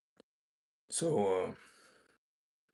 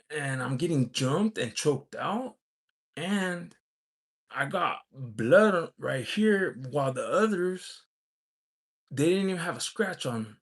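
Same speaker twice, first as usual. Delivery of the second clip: indignant; 4 semitones higher than usual. Real, not acted. Indignant retelling of unfair fight.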